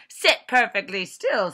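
loud, harsh order; stern teacher command. A narrator's reading. Strict teacher barking orders at the class, loudly. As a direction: bark it at the class.

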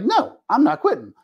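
imitating an addict who won't quit; mock stubborn addict. Voicing addicts' stubborn refusal.

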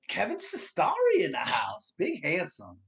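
high, loud shout-out; calling out. Real, not acted. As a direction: hail a guest like a hype man. Hails a viewer joining.

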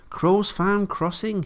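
pleased as punch, taking it slow; happy. A narrator's reading. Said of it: "he chunted happily".

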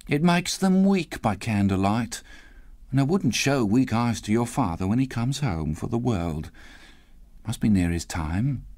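lightly voiced mother keeping composed; a hint of a brave mother; Cratchit's wife, covering grief. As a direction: make gentle excuses for tearful eyes. Mother covers up her tears.

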